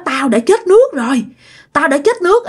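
high, wailing drowned ghost. Acted. Possessed uncle speaks as a drowned ghost, wailing. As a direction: moan it like a drowned spirit.

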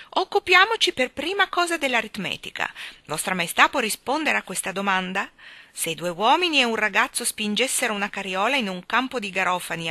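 brisk, matter-of-fact professor; businesslike tone. Acted. A hint of a brisk professor quizzing the king. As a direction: lay out the problem briskly. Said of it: "con un tono di voce da uomo d'affari".

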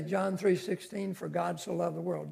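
"John three sixteen" run straight into "for God so loved the world"; no pause after reference. Shown as a demonstration. Preacher showing the congregation how to join reference and verse, no pause. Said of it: "Don't have a big pause between".

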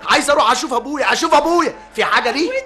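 high, loud, rushed protest; excited pleading. Acted. Son protests loudly to his mother that he only wants to see his father. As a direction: beg her to hear you out, loud and high.

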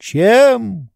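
sharp high indignant query; a lordly master's irritated voice. A narrator's reading. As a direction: fire the question back at the servant. Oblomov's indignant retort.

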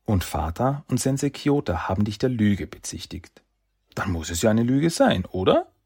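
put-on a little boy pressing his brother; young boy Saki.

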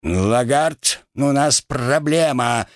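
slow, lordly captain's alarm; crow captain's voice. Pretend. Rat acts the captain warning the gunner, slow and lordly. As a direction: announce the problem like the proud captain. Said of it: "сказал Хак голосом капитана Вороны".

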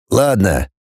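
low, grudging grunt; grunted reply. Acted. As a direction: grumble it briefly, pitched low. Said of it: "буркнул шеф". (низко буркнуть)

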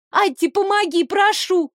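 намного выше, умоляюще; отчаянно умолять; мольба. Acted. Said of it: "умоляющим взглядом". (пленница умоляет Атти о помощи)

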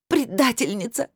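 high, slow accusing cry; crying girl accusing her stepmother of betrayal; angry through tears. A narrator's reading. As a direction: spit the word out at her in anger. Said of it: "наконец зло выдохнула Анжелика".

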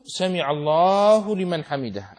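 drawn out slowly, like in prayer; slow recited formula. Shown as a demonstration. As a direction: recite it slowly as the imam would. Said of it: "يقول". (تلاوة بطيئة)

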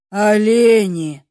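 put-on an elf sighing at silly girls. A narrator's reading. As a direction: breathe it out with weary contempt. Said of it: "вздохнул эльф".

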